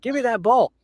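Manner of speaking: high whiny demand; mock Karen demand. Retelling the Karen at the game, high and whiny. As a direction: mimic an entitled woman snatching. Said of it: "She was like".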